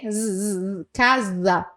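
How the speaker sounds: "casa" with a buzzing z sound. Shown as a demonstration. Teacher showing Portuguese s between vowels. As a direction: buzz the s in "casa" like Z. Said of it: "ele tem som de Z".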